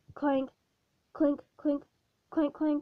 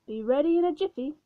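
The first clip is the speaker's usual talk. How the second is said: louder, bright cheerful call; 3 semitones higher, 5 dB louder, faster than usual. Acted. Pink Panther calling to the ghost from the laundry, cheerful call. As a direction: sing it out merrily. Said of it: "he called cheerfully".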